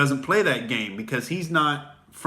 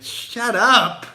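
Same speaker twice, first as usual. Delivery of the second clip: sudden high, loud "shut up"; exasperated shout; 9 semitones higher, 6 dB louder than usual. Real, not acted. Comic cutting off imagined critics with an exasperated shout. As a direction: snap it off in disbelief.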